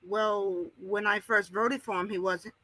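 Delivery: caller coming through a phone line; radio show caller. Real, not acted.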